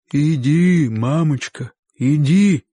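gently urging, each "иди" leaned on; affectionate. A narrator's reading. Uncle sending the cornered man on his way, affectionately. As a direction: coax kindly in short separate phrases. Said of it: "ласково сказал".

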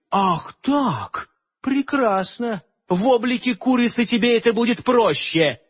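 high, sharp threatening voice; venomous threat. A narrator's reading. Morgana threatening to turn Aleonora into a hen. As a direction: threaten her with a curse.

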